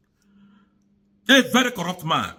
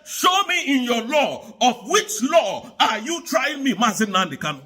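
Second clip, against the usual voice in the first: defiant retold challenge; 3 semitones higher than usual. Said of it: "He said".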